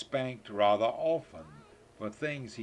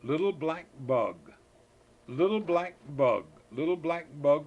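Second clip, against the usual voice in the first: sing-song call; 3 semitones higher, 6 dB louder than usual. Acted. Reading rhyme to child.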